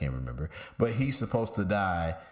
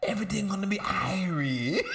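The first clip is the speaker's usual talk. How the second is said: mock Jamaican reassurance; 8 semitones higher, faster than usual. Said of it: "And I'm like".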